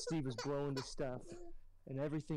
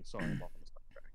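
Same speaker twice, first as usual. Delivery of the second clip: whispered aside; 5 semitones lower, faster than usual. Real, not acted. Whispered aside after theatrics.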